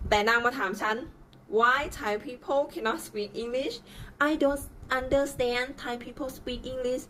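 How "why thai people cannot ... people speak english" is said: lightly put-on Indian accent; a hint of an Indian accent complaining; mock Indian accent. Imitating the Indian-accented passenger with a light Indian accent. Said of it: "สำเนียง แขก".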